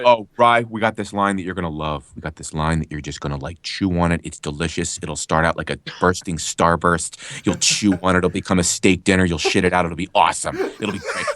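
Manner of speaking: lightly imitated salesman pitch, low-pitched; a hint of a low-voiced pitchman; colleague hyping a line. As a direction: hype it up in a low, confiding voice. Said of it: "'cause he's like".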